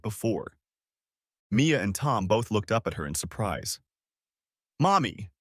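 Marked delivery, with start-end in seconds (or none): 4.8-5.3 a bright, higher call of Mommy, louder; young son greets mother at the door with a happy shout; child's shout. Acted. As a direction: call out happily to mom as a little boy. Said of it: "Tom shouted".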